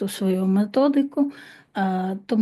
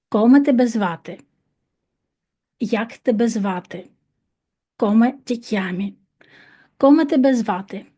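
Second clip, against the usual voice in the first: faster. Shown as a demonstration. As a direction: drill said quicker and brighter. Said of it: "ще раз, швидше". (швидше)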